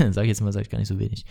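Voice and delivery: chuckling through the words; laughing at himself. Real, not acted. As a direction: laugh it off, amused at his own phrase. Laughs at own phrase.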